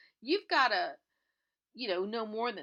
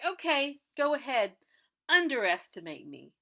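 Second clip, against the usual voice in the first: louder, emphatic retold challenge; defiant comeback; 5 semitones higher, 6 dB louder than usual. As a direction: dare him to doubt you. Acted defiant comeback to the owner.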